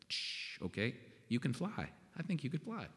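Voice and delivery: soft shushing, humoring a would-be leader; hushing mock reassurance. Pastor gently humoring a pushy newcomer, soft mock reassurance. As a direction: hush them softly, like calming a dreamer. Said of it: "Pastor Bruce is like".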